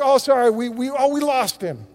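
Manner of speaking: mock-flustered, stumbling apology; flustered TV host. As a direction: stumble through a hammed-up awkward excuse. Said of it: "the lady did".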